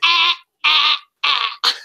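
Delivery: mock loud guffaw from the front row; loud German laugh. German heckler in the front row laughing loudly. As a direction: bellow a big laugh. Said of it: "It was".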